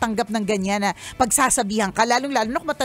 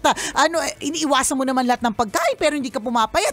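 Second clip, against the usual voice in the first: mock catty remark; 3 semitones higher than usual. A judging acquaintance nagging about dieting, mock concern. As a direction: needle her with fake sympathy. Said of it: "Yung pagka ganyan yun".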